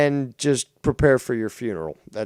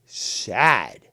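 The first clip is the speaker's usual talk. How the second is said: contemptuous; 4 semitones higher, much slower than usual. Real, not acted. Slow contemptuous jab.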